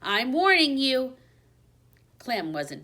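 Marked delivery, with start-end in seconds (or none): 0.0-1.2 high, loud squeaky threat; squeaked threat. Acted. Hamster warns the big dog in a loud squeak. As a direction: brave little squeak of a threat. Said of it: "I squeaked".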